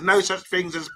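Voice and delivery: put-on imitation of his accent; Bath Time's accent. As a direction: lightly attempt another host's accent. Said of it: "I'm trying to do his accent".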